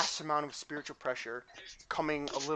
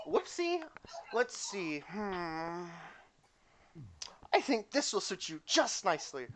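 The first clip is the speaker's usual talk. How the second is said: put-on ditzy girl recovering from a trip; clumsy cheerful girl; 2 semitones higher, 4 dB quieter than usual. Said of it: "she stands back up and goes".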